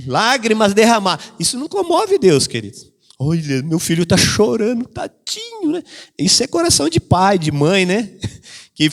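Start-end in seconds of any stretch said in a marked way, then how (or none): 3.2-5.8 lightly voiced doting parent; pitying parent. Parent pitying crying child.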